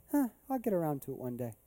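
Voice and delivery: quick, soft, offhand dismissal; acted-out apathetic brush-off; half-hearted shrug. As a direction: put it off lazily, mock indifferent. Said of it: "Earnestly desire does not mean".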